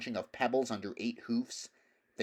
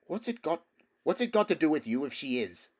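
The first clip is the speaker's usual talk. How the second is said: put-on higher, louder, defiant girl's voice; fierce; 6 semitones higher, 4 dB louder than usual. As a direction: bristle back at the horse. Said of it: "said the strange rider fiercely".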